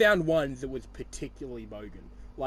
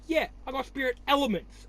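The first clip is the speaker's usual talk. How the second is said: much higher, imitating a clueless friend; mock his dumb line in a raised voice; 7 semitones higher than usual. Teasing a friend over his spirit elements, mock higher voice. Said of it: "And he's like".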